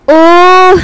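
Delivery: loud bright oh; pleased surprise. Acted. Jillian reacts to meeting Anton, bright surprise. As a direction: perk up suddenly.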